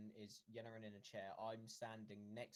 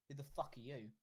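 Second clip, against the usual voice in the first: moderately raised, blunt challenge; said loudly; 3 semitones higher than usual. Acted. Yen openly challenges the stranger, loudly. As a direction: ask it out loud for the room to hear. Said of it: "and she says loudly".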